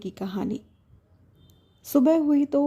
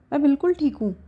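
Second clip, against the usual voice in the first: बिल्कुल pushed a bit higher and louder, falling; insistent; 5 semitones higher, 3 dB louder, faster than usual. Acted. Wife insists to husband she is fine, stubborn. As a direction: insist on बिल्कुल, brushing off worry. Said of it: "एकदम तपाक से बोल पड़ती है".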